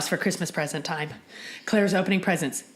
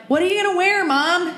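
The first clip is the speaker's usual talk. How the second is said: much higher, eager question; eager kids; 11 semitones higher, 4 dB louder than usual. Retold or imitated. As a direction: ask Mom like excited children. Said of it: "then they're like".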